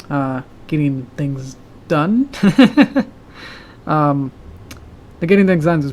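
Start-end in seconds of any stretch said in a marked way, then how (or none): 2.3-3.1 laugh. Real, not acted. Laughing about getting things done.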